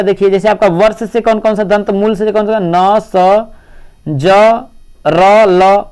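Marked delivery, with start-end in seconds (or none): 5.1-5.8 "र, ल" each sounded slowly and separately; slow sound demo. Shown as a demonstration. Teacher showing students which sounds come from the gum ridge, slow demo. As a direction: sound out र and ल slowly, one at a time. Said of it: "बोला जाता है".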